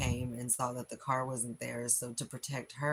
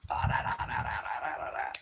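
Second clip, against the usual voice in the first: mock Philly rant; 4 dB louder, faster than usual. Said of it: "Philly comes out like a mofo".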